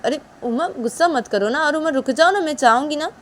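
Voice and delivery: mother-in-law begging angry Uma to stop; mother pleading. Acted. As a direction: beg her to calm down.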